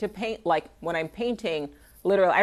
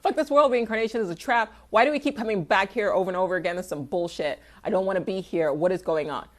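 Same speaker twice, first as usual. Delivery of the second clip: mock grumpy rant; faster than usual.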